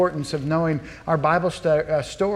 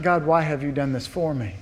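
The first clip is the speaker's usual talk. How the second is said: softer, humbled thanks; grateful wonder; 4 dB quieter than usual. Shown as a demonstration. Believer thanking God in hardship, soft humble wonder. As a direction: marvel quietly at the gift.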